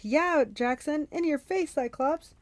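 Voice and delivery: high, drawn-out jeering shout; gloating, high-pitched holler. A narrator's reading. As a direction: shout it from a ship's deck. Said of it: "Clarice shouted from the deck".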